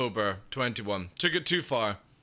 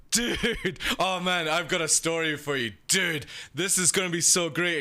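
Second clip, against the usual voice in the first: higher, bubbling mock excitement with a laugh; hyped buddy; 3 semitones higher than usual. Friend teasing a great story, mock excited and higher. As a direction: oversell the story like a giddy stoner.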